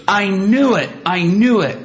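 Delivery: lightly voiced woman blurting it out; retold excited exclaim.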